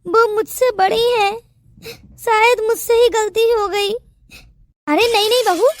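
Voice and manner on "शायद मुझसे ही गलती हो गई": teary, self-pitying complaint; tearful. Acted. Daughter-in-law playing victim to the aunt, tearful. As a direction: sniffle it out like a victim. Bahu fake humble, crying.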